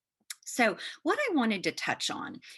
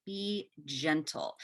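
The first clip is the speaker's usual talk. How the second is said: gentle reminder; 3 semitones lower, much slower than usual. Shown as a demonstration. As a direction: lay the words down slowly and kindly. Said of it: "importance of be gentle".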